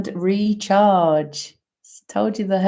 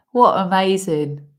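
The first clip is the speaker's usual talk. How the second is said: laughing; 4 dB louder than usual. Real, not acted. Laughing amazement.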